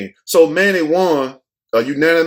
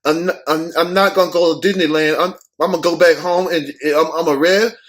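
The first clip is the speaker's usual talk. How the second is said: imitating Manny. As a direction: answer like a winded fighter stumbling over words. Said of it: "He like".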